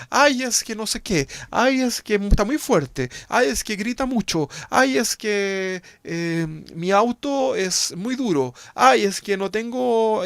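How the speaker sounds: high, loud whiny complaining voice; hammed-up whiny grumbler; mock whining complainer. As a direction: whine every ay like a spoiled complainer.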